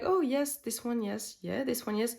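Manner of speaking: giddy, delighted cooing over a palette; mock-giddy collector picking a favorite; gushing inner voice. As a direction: gush like you just found the one. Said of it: "I was like".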